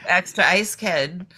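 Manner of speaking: thick Boston coffee order; Boston accent. Retold or imitated. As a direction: order like a Boston local, kid. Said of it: "talked in your full Massachusetts accent".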